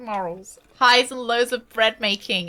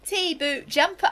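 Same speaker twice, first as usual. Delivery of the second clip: slow, higher-pitched mock British accent; 4 semitones higher, slower than usual. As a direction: draw it out, poking fun at British speech. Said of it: "I'm making fun of him. That's my accent".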